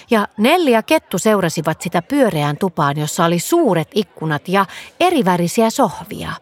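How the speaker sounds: usual speaking voice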